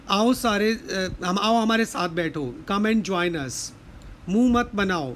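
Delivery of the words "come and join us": put-on very slow, every word spaced out for the children; slow teaching model. Shown as a demonstration. Teacher modelling the phrase to children, very slow. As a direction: lay each word down slowly so kids can copy. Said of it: "don't make faces means मुंह मत बनाओ".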